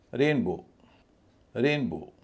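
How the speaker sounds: रेन stressed, बो lighter and falling. Shown as a demonstration. Teacher showing learners how stress changes pronunciation, stress on रेन in रेनबो. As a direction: lean on रेन, ease off on बो. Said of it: "रेन पे मेरा ज़्यादा stress है".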